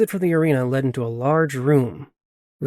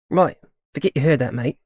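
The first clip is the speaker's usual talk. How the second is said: put-on quick, breezy Australian accent; hurried Australian accent, brushing it off. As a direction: slip straight back into the Australian accent, fast. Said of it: "accent back in full force".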